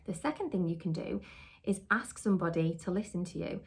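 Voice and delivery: ordinary delivery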